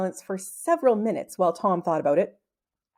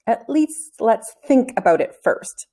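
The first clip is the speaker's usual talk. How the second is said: pleading; slower than usual. Acted. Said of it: "Tom pleaded".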